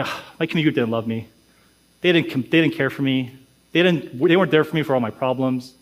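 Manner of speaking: mild, low-pitched mock complaint; acted grievance. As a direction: voice a let-down member's sulky grumble. Voices a member's survey complaint.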